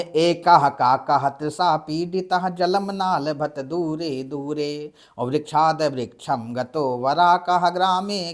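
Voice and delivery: slow, measured Sanskrit verse recital; slow chanted Sanskrit poem; poem recitation. Shown as a demonstration. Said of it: "ऐसे कविता है".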